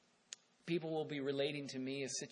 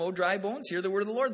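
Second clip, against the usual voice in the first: louder, full-voiced proclamation; forceful preaching; 4 semitones higher, 9 dB louder, faster than usual. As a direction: thunder it out to the bones. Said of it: "and the Lord says, he says to them".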